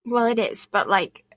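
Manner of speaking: slight lisp on the S sounds. Real, not acted. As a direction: talk through a lisp. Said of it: "I have a lisp today".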